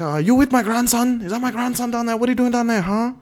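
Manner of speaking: high, hammed-up Asian grandma accent; squeaky old Asian grandma accent, scolding; mock Asian accent. Imitating the grandmother's Asian accent to his friends. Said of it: "you gotta stop with the Asian accent".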